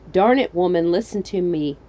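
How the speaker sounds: lightly voiced fed-up husband, loud start; a touch of scolding husband; exasperated husband. Husband to his wife, mild exasperation. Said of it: "in a voice he's probably only ever used on his wife".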